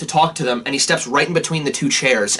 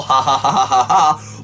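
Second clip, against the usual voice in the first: laughing; 3 semitones lower than usual. Real, not acted.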